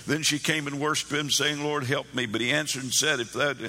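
mildly hurried, cursory Bible reading; reading straight through. Shown as a demonstration. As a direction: run through the verse without dwelling on it. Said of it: "on and on I went".

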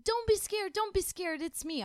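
goofy guy reassuring. Retold or imitated. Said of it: "He's like".

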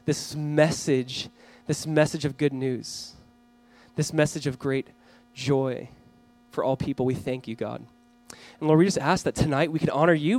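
hushed, reverent address to God; prayer. Real, not acted. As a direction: pray aloud gently, with long pauses between phrases. Let's pray.

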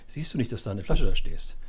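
half-hearted scolding with some punch; mock grumbling. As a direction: imitate having a go at someone. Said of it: "Hätte ich natürlich anmeckern können".

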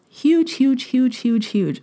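giggling through repeated words; laughing. Real, not acted. Host gushing over her event, laughing through the words.

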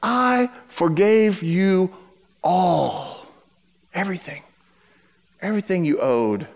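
slow, low, hushed rebuke; stern master. Acted. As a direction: let the forgiveness land heavy and quiet. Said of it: "Now listen to what he says".

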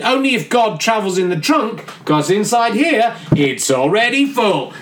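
slow, lightly voiced sassy girl; a hint of a smart-mouthed daughter; cheeky daughter. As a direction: drag it out with teenage sass.

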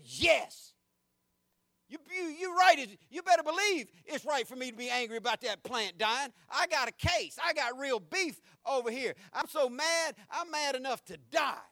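sass God like a fed-up man; mock angry Jonah. Preacher acting out angry Jonah.

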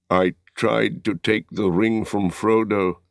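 a hint of a dying man's slow words; lightly voiced dying man. A narrator's reading. Wounded Boromir confesses to Aragorn, lightly voiced and weak. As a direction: confess it weakly, short of strength. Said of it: "At last slow words came".

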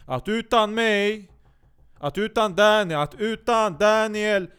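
slow, high and loud, stretching each utan; milk it like a grand speech; dramatic emphasis. Acted. Dramatic self-praise build-up.

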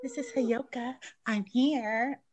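distant, faint voice off mic; sounding far from the mic; far away. Real, not acted. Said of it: "you sound so far away".

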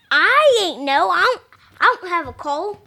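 squawky cartoon duck voice, lightly done; a kid's quick Donald Duck impression. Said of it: "Mason's doing his Donald Duck impression".

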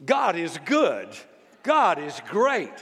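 slow, pleased mock praise; smug thanks. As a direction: savor it like the big slice winner. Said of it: "you think".

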